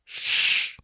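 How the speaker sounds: sharp voiceless hush; hissed shush. A narrator's reading. Hidden man silencing the woman through the apertures, hissed. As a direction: hiss for silence through a narrow opening. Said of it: "he hissed through the apertures".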